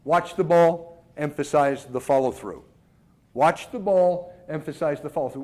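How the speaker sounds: a coach's mantra, steady and deliberate; self-talk cues. Shown as a demonstration. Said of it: "I relate to the ones on the same line".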